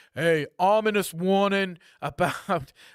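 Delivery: put-on New York-accented speech. Recapping a news item for listeners, slip into a New York accent. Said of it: "that's my New York accent".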